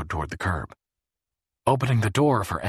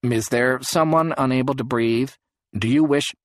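squawking phone speaker; 7 semitones higher, 6 dB louder than usual. A narrator's reading. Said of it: "the phone tab squawked from its speaker".

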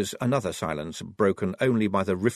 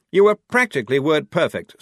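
gloating; 7 semitones higher, 8 dB louder than usual. Acted. Blouse gloating over Jackram.

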